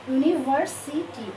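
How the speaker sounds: ইউনিভার্সিটি slowly broken into its syllables. Shown as a demonstration. Teacher testing an example word for students, ইউনিভার্সিটি syllable by syllable. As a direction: count out the beats of ইউনিভার্সিটি. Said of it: "yeah syllable".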